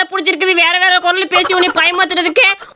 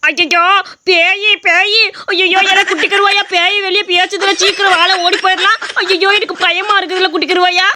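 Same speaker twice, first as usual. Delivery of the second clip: scared; 3 semitones higher than usual. Acted. Fleeing a ghost in panic.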